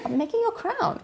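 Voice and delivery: coy innocent answer; playful reply. Retold or imitated. Acting out her own coy answer to the husband.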